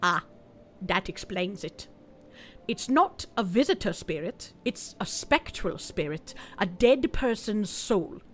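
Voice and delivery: mystic medium on a call; fake TV psychic voice.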